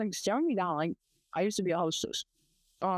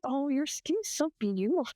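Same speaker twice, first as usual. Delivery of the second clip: higher-pitched mock gushing; imitated old admirer; 4 semitones higher than usual. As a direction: lightly mimic a fawning customer. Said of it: "He's like".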